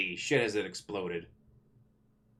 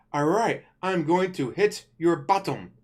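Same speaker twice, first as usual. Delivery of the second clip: mocking kid-show line; 4 semitones higher, 5 dB louder, slower than usual. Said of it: "it's so annoying when it's like".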